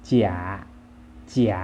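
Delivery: เจี๋ย as Chinese, with a falling tone; Chinese pronunciation. Shown as a demonstration. Teacher models the word for fake, Chinese pronunciation of เจี๋ย. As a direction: say เจี๋ย in Chinese, dropping in pitch. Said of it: "ภาษาจีนจะอ่านว่า".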